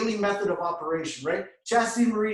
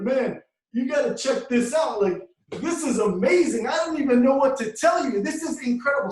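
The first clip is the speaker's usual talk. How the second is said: higher and louder, bubbling over; excited live video; 5 semitones higher, 4 dB louder than usual. Retold or imitated. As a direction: rave about it to the camera. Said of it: "I'm on live video like".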